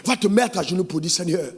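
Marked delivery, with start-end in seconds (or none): 1.1-1.5 hushed mock prayer. Husband praying on his knees.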